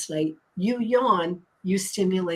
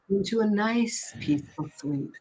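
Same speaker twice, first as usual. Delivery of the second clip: slow hypnotist voice; 2 semitones lower, faster than usual. Shown as a demonstration. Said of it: "I'll use my hypno voice".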